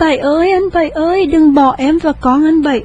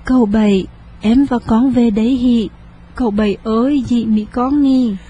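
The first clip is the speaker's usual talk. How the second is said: ordinary delivery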